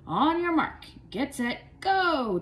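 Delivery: high, loud starting call; shouting. A narrator's reading. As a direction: yell the start of the race. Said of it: "Tommy shouted".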